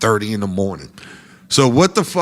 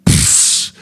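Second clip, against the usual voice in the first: unvoiced scoffing puff; dismissive pfft. Band member brushing off the comic, scoffing pfft. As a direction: blow him off with air. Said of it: "that nigga just did the".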